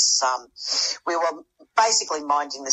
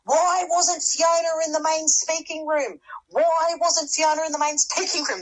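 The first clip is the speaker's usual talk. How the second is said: high, drawn-out retold yell at normal volume; hammed-up outraged shout without the volume; mock yelling; 11 semitones higher than usual. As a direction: imitate a woman yelling in protest, slow and high-pitched. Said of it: "she's yelling at the top of her voice".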